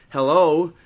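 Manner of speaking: imitated drawn-out Southern hello; long southern drawl. Woman answering the operator on the phone, mock long Southern drawl. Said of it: "they've got a long drawl".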